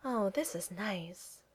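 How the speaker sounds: slow, soft contented sigh. A narrator's reading. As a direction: say it softly on a happy little sigh. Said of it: "with a contented little sigh".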